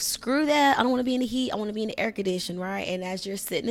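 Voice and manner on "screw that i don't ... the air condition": mock whiny protest. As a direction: play a sulky inner voice refusing the heat. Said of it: "And it's like".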